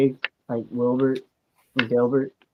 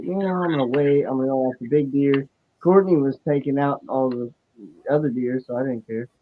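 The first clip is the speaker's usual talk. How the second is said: hollow, echoey phone sound; like talking through a glass jar; muffled phone mic. Real, not acted. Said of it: "You sound all muffled".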